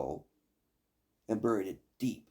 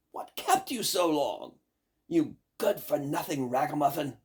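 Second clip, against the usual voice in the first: mild mock shout; 6 semitones higher, 4 dB louder than usual. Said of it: "they all shouted at her".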